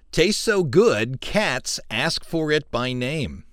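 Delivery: slow, upbeat jingle-style slogan read; chipper 1950s ad. Retold or imitated. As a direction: sell it like an old TV ad. Host quotes cat food slogan.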